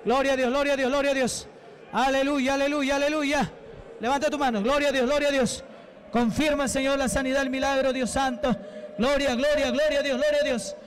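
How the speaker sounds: insistent preacher's thanksgiving, word after word; fervent praise prayer. Real, not acted. Preacher thanking God for the deliverances, fervent. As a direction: pour out praise in chanted bursts.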